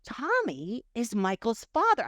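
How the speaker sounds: stunned discovery, drawn out; retold revelation. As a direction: say it slowly, as if it has just struck you. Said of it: "like this revelation or something".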